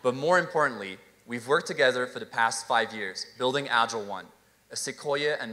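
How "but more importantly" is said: hammed-up French accent; exaggerated, charming French accent. Shown as a demonstration. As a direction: lay the French accent on thick for comic show. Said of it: "with a very charming French accent".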